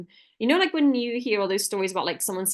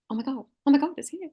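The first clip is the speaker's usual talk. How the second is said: high, thrilled gasp of relief; excited; 6 semitones higher than usual. Retold or imitated. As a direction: squeal it with joy. Retold joy at email arriving.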